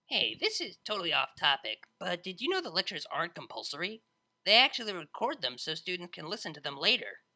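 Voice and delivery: put-on loud, eager party girl; loud brash DJ. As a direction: blurt out the plan excitedly. Vinyl voiced, excited idea.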